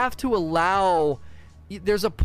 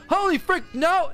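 panicked yelp; 13 semitones higher than usual. Retold or imitated. Game devs juggling chainsaws, panicked high yelp. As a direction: squeal as if a flaming pin lands in your hands.

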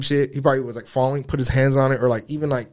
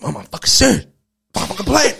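loud, high-pitched imitated sobbing plea; retold crying; 10 semitones higher, 6 dB louder than usual. Son begging his mother to believe him, re-enacted crying. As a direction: act out crying down the phone to mom. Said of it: "and I start crying".

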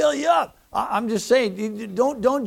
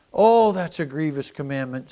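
whiny mock grumble about a burden; mock complaint; 4 semitones lower, 3 dB louder than usual. Preacher mimicking a churchgoer who whines about prayer. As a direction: imitate a grumbler moaning "grievous". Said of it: "some might say".

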